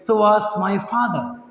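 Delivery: very slow and deliberate, each word separate; slow model phrase. Shown as a demonstration. Teacher slowly models the phrase for students, deliberate and slow. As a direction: lay out each word for the learners. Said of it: "teacher models answer phrase".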